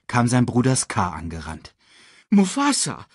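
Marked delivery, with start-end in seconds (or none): 2.3-3.1 call. A narrator's reading. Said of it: "rief er".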